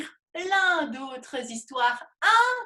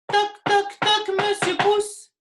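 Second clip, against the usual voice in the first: louder knocking call; 5 semitones higher, 4 dB louder than usual. Pretend. Knocking louder to wake thumb.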